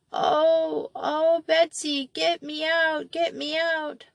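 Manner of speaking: put-on high small child's voice, pleading; a trapped child begging to be pulled out; frightened little girl. A narrator's reading. Molly calls up from the pit to Betsy, pleading and tearful. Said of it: "sobbing voice".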